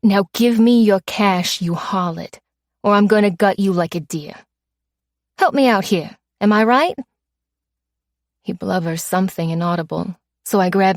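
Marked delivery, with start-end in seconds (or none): 0.0-7.0 mugger quote. Retold or imitated. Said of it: "the term of endearment was".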